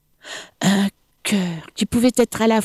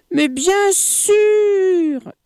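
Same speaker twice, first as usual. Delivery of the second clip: slightly shivering; 14 semitones higher, much slower than usual. Acted. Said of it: "en frissonnant légèrement".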